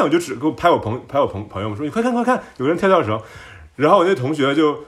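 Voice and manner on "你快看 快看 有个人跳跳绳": high, loud burst of astonishment; amazed shout. Retold or imitated. Shouting to friends about the jump-rope man, amazed. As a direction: call out to your friends in shock. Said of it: "我当时就惊了".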